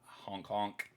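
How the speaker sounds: mock goose honk. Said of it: "you have to do the arms".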